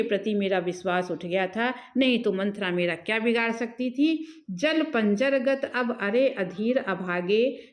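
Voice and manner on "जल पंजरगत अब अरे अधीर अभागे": verse recitation. Acted. (लय में धीमा कविता-पाठ)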